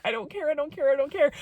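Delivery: high, lighter rapid-fire repetition; giddy insistence. Retold or imitated. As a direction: repeat it giddily in a small high voice. Repeated giddy insistence, dropping softer.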